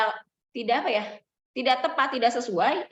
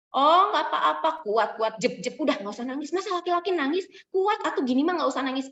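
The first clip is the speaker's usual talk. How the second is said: brisk, brushing-off parent with a higher opening; dismissing parent; 4 semitones higher than usual. Shown as a demonstration. Dismissing parent telling crying boy to toughen up, brusque. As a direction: hurry the child to stop crying. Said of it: "Itu emotion dismissing parent".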